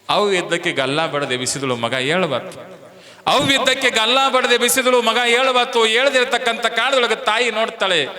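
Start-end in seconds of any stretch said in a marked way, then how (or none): 3.3-8.1 high, loud preacher's cry; loud dramatic retelling. A narrator's reading. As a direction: ring the words out to the crowd. Mother shakes the dead son. (ಜೋರಾಗಿ ಏರಿದ ಧ್ವನಿಯಲ್ಲಿ)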